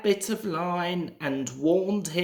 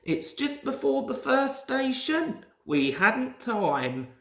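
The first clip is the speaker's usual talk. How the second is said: anxious; 7 semitones higher than usual. A narrator's reading. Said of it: "said Rusty anxiously".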